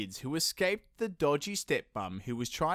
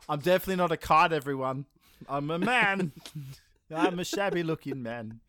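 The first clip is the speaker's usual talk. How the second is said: silly indignant voice; 3 semitones higher, 5 dB louder than usual. Acted. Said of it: "he goes".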